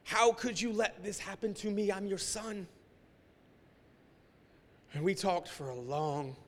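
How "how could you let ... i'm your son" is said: higher, pleading outburst; anguished cry to God. Retold or imitated. Higher pleading outburst. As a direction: pastor crying out to God on the beach. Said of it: "And just yelling at my father".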